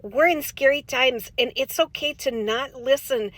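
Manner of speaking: put-on folksy Minnesota accent, chatty and sing-song; light Upper Midwest accent with long round vowels; Minnesota soccer mom voice. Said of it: "Minnesota soccer mom voice".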